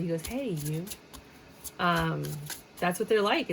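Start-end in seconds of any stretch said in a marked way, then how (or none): 0.3-0.8 soft, creepy "Hey, you"; a hint of a stalker's greeting; creepy Joe from You. Reader imitating the Netflix stalker's creepy greeting. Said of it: "That's how he says it".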